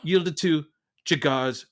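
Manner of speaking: measured British narrator; British accent. Acted. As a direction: Masterpiece Theatre host reading. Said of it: "We're going British".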